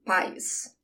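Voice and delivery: "país" said softly with the weight on "pa"; "país" pronounced PA-is, soft ending; stress on first syllable. Shown as a demonstration. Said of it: "So the emphasis on the pa".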